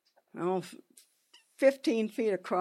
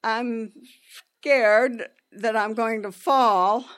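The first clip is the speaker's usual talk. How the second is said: slow, measured calm; a steady, calm admission; calmly; 4 dB louder, slower than usual. Retold or imitated. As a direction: hold it together and say it evenly. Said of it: "so I calmly said".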